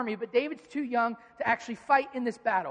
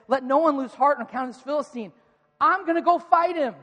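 louder, confident proclamation; bold declaration; 3 semitones higher, 6 dB louder than usual. Retold or imitated. David boldly volunteering before King Saul, loud and sure. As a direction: stand tall and announce it.

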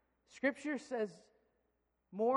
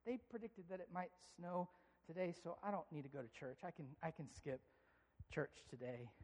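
lazy excuses; 5 semitones lower, 12 dB quieter than usual. Retold or imitated.

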